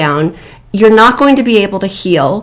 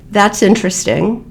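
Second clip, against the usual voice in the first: flat, no emotion; 3 dB quieter than usual. Shown as a demonstration. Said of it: "with hardly any emotion".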